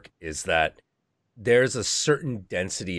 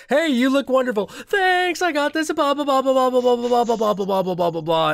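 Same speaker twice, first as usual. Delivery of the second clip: very high, bright gushing schmooze that winds down; fake friendly LA voice; 6 dB louder than usual. S0 mocking loud LA social types, high gushing voice. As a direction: gush like a fake-nice Hollywood networker.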